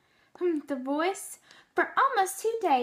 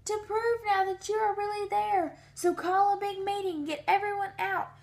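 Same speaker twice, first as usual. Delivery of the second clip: urgent calling; 5 semitones higher than usual. Acted. Horton urgently calling to the mayor.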